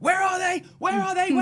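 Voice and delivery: high, loud, frantic, panicked voice.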